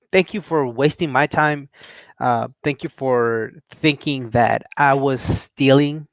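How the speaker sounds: slow, pointed mock gratitude; slow, deliberate retold sarcasm; sarcastic thanks.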